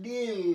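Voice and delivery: ডিল with a long, held ee. Shown as a demonstration. Teacher showing pupils the long i, ডিল with a held ee. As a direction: draw out the ee in ডিল. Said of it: "দীর্ঘ ই দিয়ে দেখাচ্ছি".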